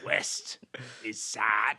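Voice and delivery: low, whispered mock sadness; sad. Shown as a demonstration. Comic demonstrating compass mode's west, sad. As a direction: let it sink into a slow-paced, voiceless sad whisper. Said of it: "it changes the emotion of the character".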